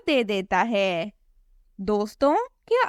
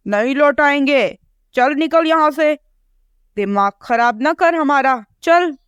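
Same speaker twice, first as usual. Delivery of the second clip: rude crow; 4 semitones higher than usual. Acted. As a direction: brush her off rudely. Crow refuses rudely.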